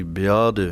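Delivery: ਵਿਆਦ said tightly so the ਧ sound is heard; tight pronunciation. Shown as a demonstration. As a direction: press ਵਿਆਦ firmly, sounding the ਧ. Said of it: "ਕੱਸ ਕੇ ਬੋਲਣਾ ਹੈ".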